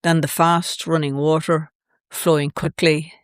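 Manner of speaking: measured poetry reading in short, paused phrases; poem recital. Acted. Activist reads her poem of witnessing drilling, measured recital. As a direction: read it as a spoken poem, pausing after each image.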